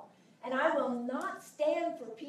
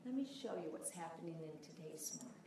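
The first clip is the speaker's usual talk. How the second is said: lowered voice; 5 semitones lower, 9 dB quieter than usual. Shown as a demonstration. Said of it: "you lower your voice and go".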